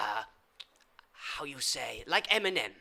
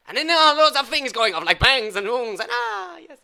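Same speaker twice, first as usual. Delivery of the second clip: excited; 6 semitones higher, 9 dB louder than usual. Acted. Wild party story.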